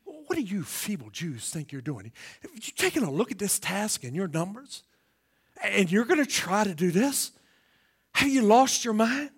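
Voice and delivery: contemptuous Sanballat. Retold or imitated. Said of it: "he speaks in a very contemptuous way".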